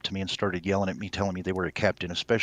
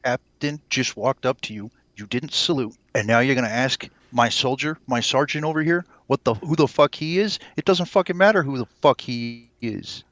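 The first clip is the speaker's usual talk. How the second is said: loud, higher, furious dressing-down; snapping captain; 4 semitones higher, 6 dB louder than usual. Acted. Fake captain yelling at the gate guard, furious. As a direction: tear into the corporal for not saluting. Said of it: "as soon as you snap at him".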